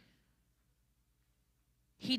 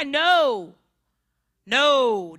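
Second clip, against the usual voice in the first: sharp, louder no; loud panicked denial; 10 dB louder than usual. Acted. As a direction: blurt the denial out. Peter denies Jesus.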